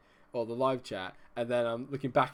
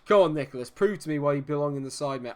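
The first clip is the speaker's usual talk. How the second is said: louder rallying call; urging shout; 2 semitones higher, 8 dB louder than usual. Real, not acted. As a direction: fire up the penalty taker. Urging penalty taker.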